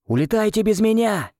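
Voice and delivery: high commanding shout. A narrator's reading. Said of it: "крикнул я Нонне". (громкий приказной крик)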